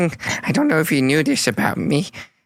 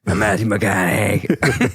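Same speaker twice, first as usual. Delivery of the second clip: southern drawl; 5 semitones lower, slower than usual. Acted. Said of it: "He starts doing a southern accent".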